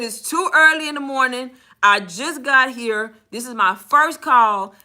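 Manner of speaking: slow, weighty retold exasperation; fed up. Agent telling a caller it's too early, fed up. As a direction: spell out your annoyance word by word. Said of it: "I'm fed up".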